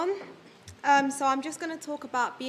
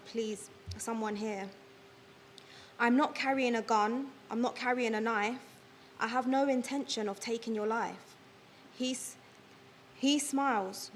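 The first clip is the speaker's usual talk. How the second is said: measured spoken-word poem delivery; poem recitation. Acted. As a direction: recite it line by line, pausing between verses. Recites own written poem.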